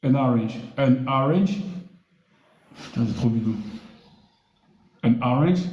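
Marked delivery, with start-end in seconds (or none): 0.0-0.6 an orange with orange said as arinzh; pronunciation demo. Shown as a demonstration. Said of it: "On dira". 0.8-1.6 An orange, orange rising at the end; pronunciation demo. Shown as a demonstration. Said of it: "On dira".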